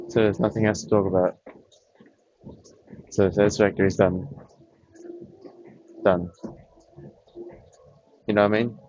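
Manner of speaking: winded, catching breath between words. Real, not acted. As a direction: talk while still panting lightly. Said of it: "Just trying to catch my breath right now".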